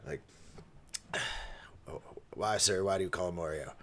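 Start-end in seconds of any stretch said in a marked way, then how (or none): 1.9-3.7 weary politeness. Retold or imitated. Weary reply to the grandpa.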